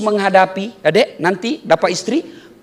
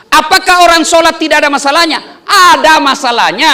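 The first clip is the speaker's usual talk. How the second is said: laughing question; 5 semitones higher, 6 dB louder than usual. Real, not acted. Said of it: "preacher asks and answers".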